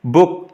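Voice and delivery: बुक with a short उ; short vowel. Shown as a demonstration. Teacher contrasting with the long vowel, बुक kept short. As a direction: keep the उ in बुक brief. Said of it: "ये short vowel है".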